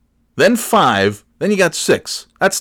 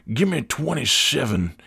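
put-on customer, softer, "twenty-seven" said in full; 3 semitones higher, 5 dB quieter than usual. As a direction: order "twenty-seven" as the customer, both syllables of seven. Customer says full number.

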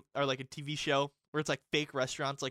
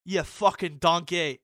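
much higher, much louder, slow mock chef rant; Gordon Ramsay yelling; 6 semitones higher, 17 dB louder, much slower than usual. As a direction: scream it like a furious celebrity chef. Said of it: "you go".

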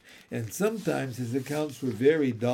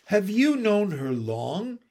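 gentle, higher-pitched careful question; 6 semitones higher, 3 dB louder than usual. A narrator's reading. Michael hoping to hear more about the cow, gentle. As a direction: ask very politely, lifting the voice. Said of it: "inquired Michael gently".

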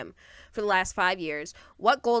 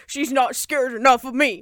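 louder mock pout; 5 dB louder than usual. Beast sulking that she is not scared, pouting. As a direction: whine like a sulking boy, half laughing. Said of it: "this boy is pouting".

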